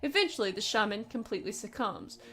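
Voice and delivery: a hint of a stern German officer; lightly voiced, grave warning, not much accent; attempted German voice. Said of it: "I wish I could do a German accent".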